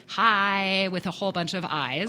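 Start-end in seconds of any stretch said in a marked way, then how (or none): 0.1-0.9 "hi" drawn out in a cheery greeting; joyful hi. Shown as a demonstration. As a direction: stretch out "hi" as a happy hello. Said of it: "joyfully say hello to somebody".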